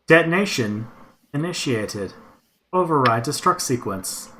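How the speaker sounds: flat robot computer announcement; a droning machine voice from its chest; robot monotone voice. Acted. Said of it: "a monotone voice coming from somewhere in its chest".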